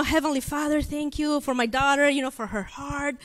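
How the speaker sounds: softly spoken prayer; mild, quiet praying voice; retold prayer. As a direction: replay a gentle prayer over a child. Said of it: "I start praying".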